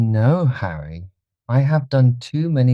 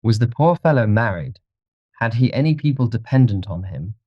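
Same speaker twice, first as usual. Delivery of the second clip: mildly bored gentleman; 3 semitones higher than usual. A narrator's reading. Dorian asks about the dead man, mildly bored. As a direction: offer help with understated indifference. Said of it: "asked Dorian, looking bored".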